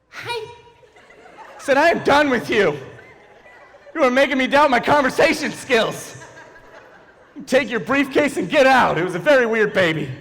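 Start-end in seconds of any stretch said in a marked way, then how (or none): 0.1-0.5 very high, soft imitated baby squeak. Baby looks him dead in the eye, tiny baby voice. 1.8-9.0 higher, emphatic comic outrage; mock exasperation. Man fed up with a baby's small talk, mock exasperated.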